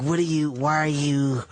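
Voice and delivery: low, scornful squint of a voice; scornful Patrice. Retold or imitated. Imitating Patrice sneering at the comics, low and scornful. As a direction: look down on them with your voice. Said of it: "giving them the look".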